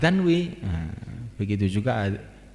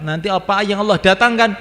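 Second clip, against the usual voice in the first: much higher and louder; emphatic preaching cry; 9 semitones higher, 10 dB louder than usual. Real, not acted. Preacher insisting the outcome is up to Allah, loud and high. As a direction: drive home it is God's will.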